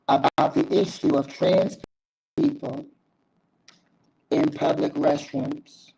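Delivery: choppy cutting-out connection; audio breaking up. Real, not acted. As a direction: voice dropping out on a bad line. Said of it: "It sound like you was breaking up".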